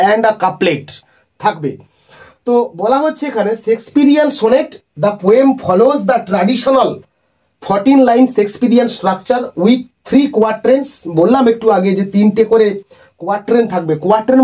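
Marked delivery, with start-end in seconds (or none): 3.6-10.9 slow, deliberate reading of notes; slow dictation. Acted. Teacher dictating sonnet notes to students, slow and measured. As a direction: read it out slowly so the class can copy it.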